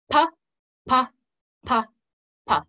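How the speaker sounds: single "pa" sounds, spaced out evenly; slow, even beat. Shown as a demonstration. Teacher demonstrating the exercise's first pattern, slow beat. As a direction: say each "pa" separately on a slow beat. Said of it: "that was our nice slow start".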